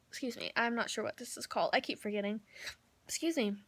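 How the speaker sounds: talking through hiccups; interrupted by small hiccups. Real, not acted. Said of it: "I keep hiccuping a lot".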